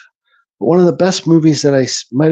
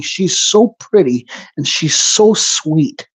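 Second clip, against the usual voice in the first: slow, tender murmur of admiration; tender, slow awe; much slower than usual. Retold or imitated. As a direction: linger on each word, touched. Moved by pretty movie girl.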